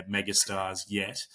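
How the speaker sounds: slow, deliberate "yet" at the end; stress on YET. Real, not acted. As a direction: lean on the word "yet". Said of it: "I do emphasize the word yet".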